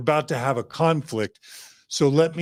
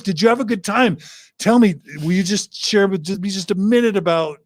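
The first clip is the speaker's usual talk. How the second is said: interested and loving; 6 semitones higher, 5 dB louder than usual. Acted. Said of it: "super calm and loving".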